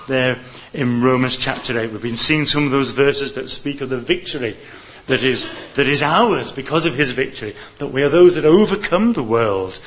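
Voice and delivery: loud, ringing sermon climax; preaching at full force. Acted. Preacher proclaiming Romans eight to the church, loud. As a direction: proclaim the verse with rising fervour.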